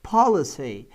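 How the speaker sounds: "policy" stressed on its first syllable. Shown as a demonstration. Teacher contrasting it with police, "policy" stressed up front. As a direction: say "policy" as POL-i-cy, punching the opening syllable. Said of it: "a sílaba tônica é a primeira".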